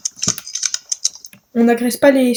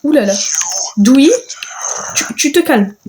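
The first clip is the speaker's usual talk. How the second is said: calling out. Real, not acted. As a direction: call Dewey down firmly. Calls out to angry Dewey.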